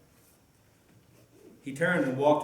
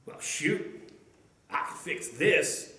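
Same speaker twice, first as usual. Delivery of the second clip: half-whispered to himself; 5 dB quieter, slower than usual. A narrator's reading. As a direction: mutter it under your breath as you realize. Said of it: "he said to himself".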